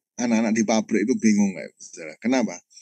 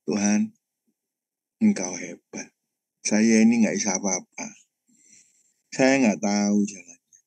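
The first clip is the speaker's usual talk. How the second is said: retold tearful prayer. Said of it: "saya cuma nangis".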